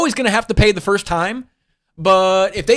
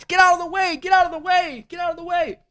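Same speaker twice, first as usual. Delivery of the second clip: very high, playful squeal, fading off; squealed protest; 11 semitones higher than usual. Real, not acted. Host squealing at something blocking the photo, very high.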